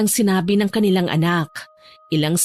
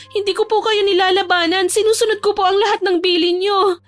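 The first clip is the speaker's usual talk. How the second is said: put-on high-pitched, distressed young woman; pleading daughter; 10 semitones higher than usual. Teresa begs Papa to believe her, high distressed plea. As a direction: plead your innocence to your father.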